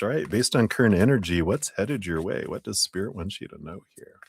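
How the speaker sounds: talking while crunching a lozenge; words round a crunching lozenge; crunching throat lozenge. Real, not acted. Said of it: "Sorry, I'm crunching my chew on here".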